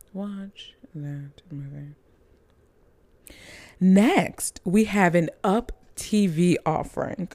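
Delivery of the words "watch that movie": soft whispered plea, slow and unvoiced; urgent whisper. Shown as a demonstration. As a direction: lean in and whisper the recommendation. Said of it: "please watch that movie".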